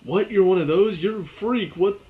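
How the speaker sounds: loud, rising mock disbelief; a teammate recoiling in fake shock; mock shocked reaction. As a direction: ham up a horrified double take. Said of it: "I'm glad they didn't do the whole".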